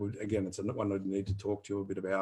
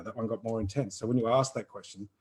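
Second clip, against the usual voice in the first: normal talking voice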